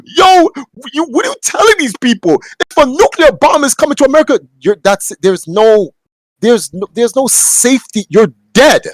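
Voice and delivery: high, incredulous outburst at the PSA; mock disbelief. Reacting to a nuclear safety notice with high disbelief. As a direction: squeal out the shock and scold the public. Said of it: "I'm like".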